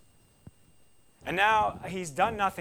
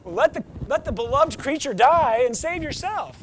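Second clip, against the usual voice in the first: loud, raised mock urging; mocking crazy advice; 8 semitones higher, 8 dB louder than usual. The world giving crazy advice, loud and pitched up. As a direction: blurt it like a panicked crowd. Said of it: "they say crazy things like".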